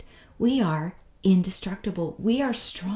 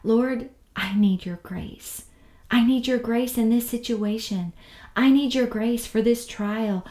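pleading prayer; 2 semitones higher, 5 dB louder than usual. Retold or imitated. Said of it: "I find myself these days praying and asking".

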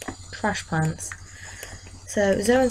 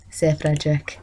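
whisper; 3 semitones lower than usual. Real, not acted. Whispered repeat of name.

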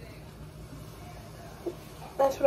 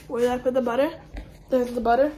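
talking through hiccups; hiccuping between words; faster than usual. Real, not acted. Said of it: "I got the hiccups".

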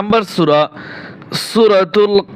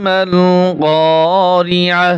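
slow, drawn-out chanted recitation; Quran recitation; much slower than usual. Shown as a demonstration. Teacher recites the verse for students, slow chanted recitation. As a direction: chant the verse slowly with tajweed.

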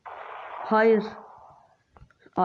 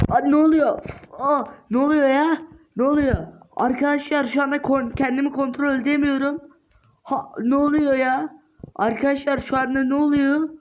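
alarmed surprise; 4 semitones higher than usual. Acted. Losing control of character.

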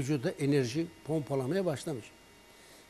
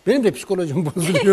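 chuckling through the words, a bit louder and quicker; laughing; 2 semitones higher, 8 dB louder, faster than usual. Real, not acted. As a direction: laugh it off while saying it. Jokes his own mood suffers. (gülerek, hızlıca)

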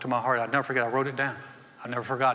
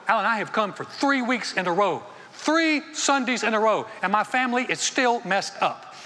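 higher-pitched, emphatic mock grievance; mock complaint; 5 semitones higher, 3 dB louder than usual. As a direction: complain like an exasperated churchgoer, playing it for laughs. Mimicking an impatient churchgoer's complaint.

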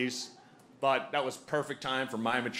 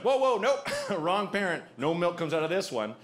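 startled; 4 semitones higher than usual. Retold or imitated. Dad startled by baby at nipple.

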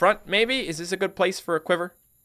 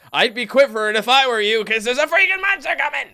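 alarmed; 8 semitones higher, 5 dB louder than usual. Real, not acted. Monster attacking the base.

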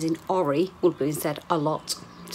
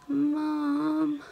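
high call of Mum; 9 semitones higher than usual. Real, not acted. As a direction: call for mum from another room. Daughter calling out.

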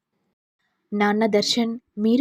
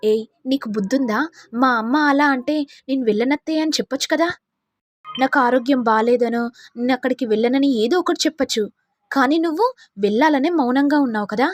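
angry husband. Acted. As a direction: rebuke her for staying silent. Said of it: "Darshan కోపంతో".

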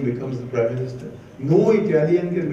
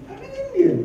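emphatic. Real, not acted. Reversing previous line.

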